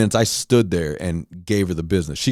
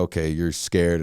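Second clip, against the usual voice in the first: calmed down; 4 semitones lower, 6 dB quieter than usual. Retold or imitated. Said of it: "I calmed down".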